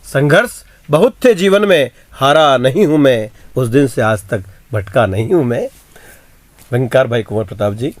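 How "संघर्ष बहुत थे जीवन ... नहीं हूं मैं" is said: poem recital. Acted. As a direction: declaim the verse. (कविता पाठ का अंदाज़)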